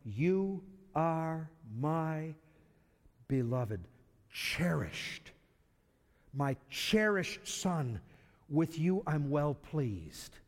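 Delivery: slow, tender voice of God, drawn out; the voice of God speaking slowly and tenderly to his son; voice from heaven. Acted. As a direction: linger on each word like a loving father. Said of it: "a voice came from heaven".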